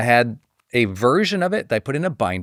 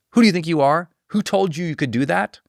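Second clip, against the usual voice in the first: higher, mildly indignant questioning; upset challenge; 4 semitones higher than usual. Retold or imitated. Someone rebuking a person who acted unasked, mildly indignant. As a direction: imitate someone putting an upstart in place. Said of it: "this person was really upset about it".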